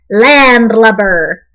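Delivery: a drawn-out pirate word, slow; slow, relished pirate slang; pirate talk. Shown as a demonstration. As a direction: say it like a proud pirate. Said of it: "say real pirate stuff like".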